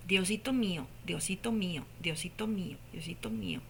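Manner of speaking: fading to a whisper; a tiny voice dying away to a breath; faint little voice. Retold or imitated. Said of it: "así escuchaba".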